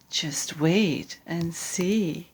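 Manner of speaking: slow hushed whisper; sly mouse whispering. Acted. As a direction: breathe it secretly. Mouse beckons secretly.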